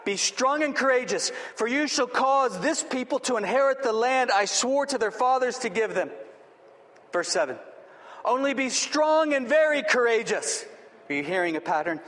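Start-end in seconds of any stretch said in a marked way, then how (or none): 0.0-6.1 raised, driving command, punching "strong"; emphatic. Acted. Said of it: "He's emphatic". 8.2-10.7 higher-pitched command, punching "strong" and "very"; emphatic. Acted. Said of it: "He's emphatic".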